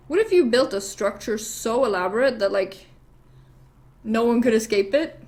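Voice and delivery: measured proposal with pauses; acted hinting question, spaced out; deliberate pitch. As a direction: lay the idea out piece by piece. King first pitches idea, deliberately.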